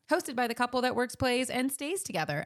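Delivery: morning show voice. Acted. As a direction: pitch it like a cheesy morning DJ. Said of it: "This is my morning show voice".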